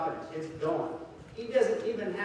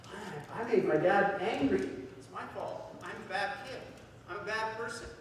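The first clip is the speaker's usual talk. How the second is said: put-on soft, higher child voice, blaming himself; small, guilty kid voice; hurt little boy; 5 semitones higher, 4 dB quieter than usual. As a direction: quietly act out a child taking the blame. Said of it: "little Johnny starts to cry".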